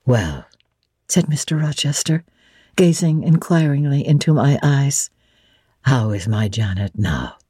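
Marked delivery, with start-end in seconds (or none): 0.1-0.5 a lower gentleman's voice; lightly voiced Rochester. Rochester asking Jane how she feels, lower. 5.8-7.4 lower, softer master's voice; low tender Rochester. Acted. Rochester gently asking after his bride, low and soft.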